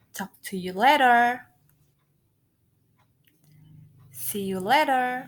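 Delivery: teacher's clear demonstration of farewells; model reading. Shown as a demonstration. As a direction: read each English phrase separately, with long pauses between. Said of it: "Coba dengarkan Ibu ya". (contoh pengucapan untuk ditiru murid)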